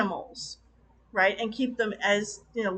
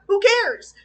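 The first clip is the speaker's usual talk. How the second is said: mock dismissive; 9 semitones higher, 7 dB louder than usual. Real, not acted. Mocking the film's plotting.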